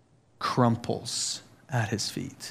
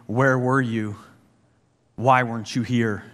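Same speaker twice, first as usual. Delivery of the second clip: accusatory angry. Retold or imitated. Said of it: "an accusatory, angry".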